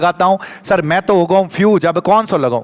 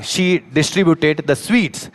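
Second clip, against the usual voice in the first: very slow, word by word; slow reading; much slower than usual. Shown as a demonstration. Teacher reading the exercise aloud to the class, very slow. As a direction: read it off the board slowly. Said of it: "क्या लिखा हुआ है".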